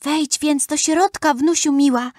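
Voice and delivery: a hint of a frail, welcoming grandmother; feeble old grandmother. A narrator's reading. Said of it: "szepnęła cicho stara babcia". (lekko zagrany głos słabej babci)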